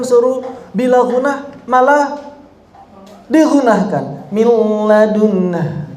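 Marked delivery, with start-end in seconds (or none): 4.9-5.9 "Min ladunnah" with sound pushed through the nose; mock a nasal error on "ladunnah"; nasalized mistake. Shown as a demonstration. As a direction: demo of wrong ghunnah.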